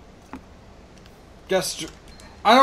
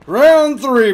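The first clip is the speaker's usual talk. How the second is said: excited; 6 semitones higher, 8 dB louder than usual. Real, not acted. Announcing the next round.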